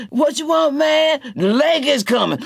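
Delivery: high, loud gruff answer; Motorboat. A narrator's reading. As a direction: brush off the call.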